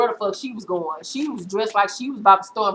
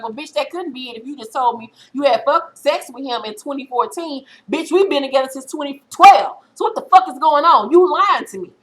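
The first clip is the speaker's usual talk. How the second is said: retold boyfriend calling her a liar; angry accusation; 3 semitones higher than usual. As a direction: accuse her, getting heated by the end. Boyfriend confronting her about Logan.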